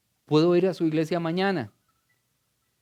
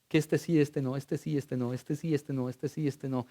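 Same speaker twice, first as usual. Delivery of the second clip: mocking sing-song; 5 dB quieter than usual. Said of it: "enseñarle a mi iglesia".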